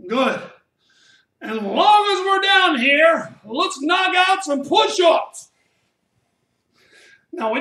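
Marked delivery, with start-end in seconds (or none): 1.4-5.5 hyped coach shout. Real, not acted. Coach rallies class into push-ups.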